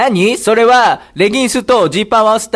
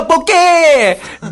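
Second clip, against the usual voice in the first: yelled retort; 9 semitones higher, much slower than usual. Acted. Retort in comedy skit.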